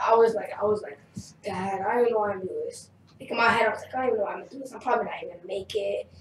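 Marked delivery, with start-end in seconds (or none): 1.4-2.9 lower, fast, softer retold worry; self-doubting. Retells doubting himself to dad. 3.9-6.1 soft, quick inner monologue; self-doubting. Retold or imitated. Retold doubting thoughts before audition.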